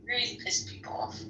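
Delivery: soft whispered repeat of "Really pissed people off"; breathy whispered echo; whispered aside. Real, not acted. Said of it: "it really pissed people off".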